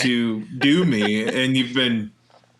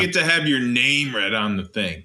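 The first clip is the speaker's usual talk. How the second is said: flat, bored read. Real, not acted. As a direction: read it like you don't care. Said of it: "Oh, you sound bored".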